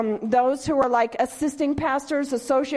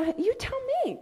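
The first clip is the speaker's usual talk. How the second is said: mock deflecting reply; 12 semitones higher, 5 dB quieter, faster than usual.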